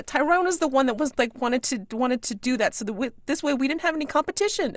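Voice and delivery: high, loud panicked blame scream. Acted. Guilty girl screaming that Tyrone planned it, high panicked shriek. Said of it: "and then she screams".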